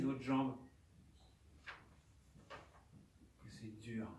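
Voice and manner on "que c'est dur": très lent, chuchoté, à bout de souffle; plainte chuchotée. Acted. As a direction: expire les mots comme un dernier souffle. Mourant répète sa plainte, souffle éteint. (plainte chuchotée et très lente)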